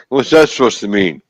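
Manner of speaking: high, loud indignant reply; squeaky offended protest; offended guy voice. Pretend. Plays offended guy's reply.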